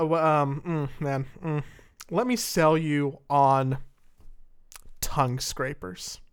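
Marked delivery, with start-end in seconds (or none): 2.1-6.2 slow sales pitch; car salesman. Pretend. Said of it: "you just sound like a car salesman".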